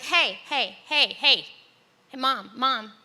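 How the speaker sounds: loud, urgent calls of hey and Mom; calling out to mom. Retold or imitated. Daughter calling ahead to her mother on the beach, loudly. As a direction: shout to get mom's attention down the beach.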